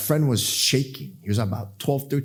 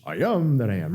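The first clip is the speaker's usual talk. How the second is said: quick, throwaway cartoon-sailor impression; Popeye; 3 dB quieter than usual. Preacher joking about spinach, Popeye impression. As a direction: toss it off as a Popeye quote. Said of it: "Popeye, spinach".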